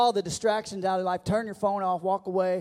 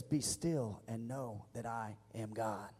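reverent hush; 8 semitones lower, 11 dB quieter, slower than usual. Acted. Quoting scripture softly.

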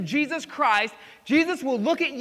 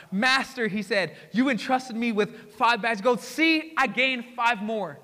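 proud servant, slowing on the last words; beaming with pride at his master; excited servant; slower than usual. Acted. Servant reporting to his master, excited and proud. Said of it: "can we read excitement into that?".

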